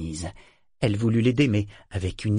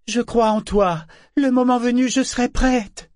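loud, high, ringing declaration; crying out; 14 semitones higher, 6 dB louder than usual. A narrator's reading. Vivacia declaring her faith in Kénit, crying out. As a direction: proclaim it high and loud, drawing out the end. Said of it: "s'écria Vivacia".

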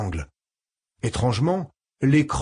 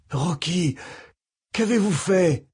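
alarmed; 5 semitones higher, slower than usual. Acted. Shocked at dying friend.

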